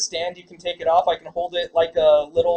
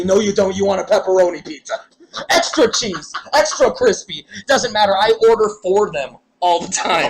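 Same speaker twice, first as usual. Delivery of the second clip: put-on New York accent; 3 dB louder than usual. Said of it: "authentic New York accent to answer their phones".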